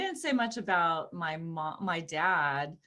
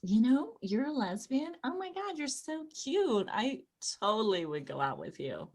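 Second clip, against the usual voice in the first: higher, soft teasing coo; 4 semitones higher, 4 dB quieter than usual.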